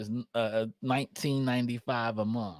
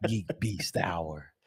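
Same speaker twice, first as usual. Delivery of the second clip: smooth it out like a late-night DJ; sexy radio voice; 5 semitones lower than usual. Pretend. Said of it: "I'm about to go into my sexy radio voice".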